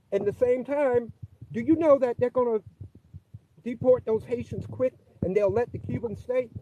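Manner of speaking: muffled phone line. Real, not acted. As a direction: voice dull as if through a wall. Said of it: "you sound muffled".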